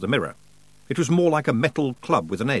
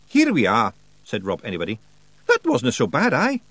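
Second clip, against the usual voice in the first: Scottish pictsie Rob; 3 dB louder than usual. Acted. Rob voiced.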